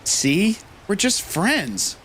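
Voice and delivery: put-on smug teen boy. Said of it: "He does".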